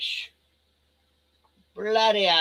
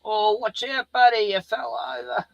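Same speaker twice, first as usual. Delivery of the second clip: higher, louder parent voice; 7 semitones higher, 5 dB louder than usual. Real, not acted. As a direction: call out to a stumbling little one. Parent reacts to toddler falling.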